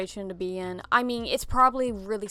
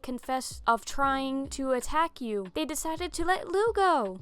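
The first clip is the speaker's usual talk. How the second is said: cheerful mother; 4 semitones higher than usual. Acted. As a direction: gush the good news like a doting mom. Mother brings news to Jeff.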